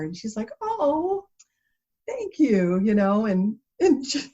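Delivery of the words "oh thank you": startled lady. Retold or imitated.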